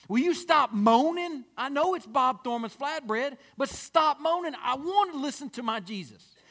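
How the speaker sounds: rising, loud exasperated plea to stop moaning; annoyed rebuke. Acted. Second guy scolds the first, loudly irritated. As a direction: hush the noisy neighbor, irritated and insistent.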